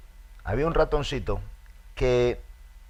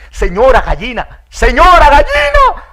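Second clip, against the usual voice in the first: a frantic mouse calling the hen; 18 dB louder than usual. Acted. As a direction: shout for the hen to come.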